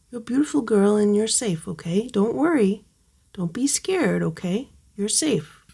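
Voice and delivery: tender you're safe; soft reassurance. Real, not acted. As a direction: comfort a frightened kitten. Reassuring frightened kitten.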